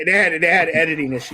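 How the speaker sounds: talking while chewing; chewing graham crackers mid-sentence; mouth full. Real, not acted. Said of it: "I'm chewing on cra-, on graham crackers right now".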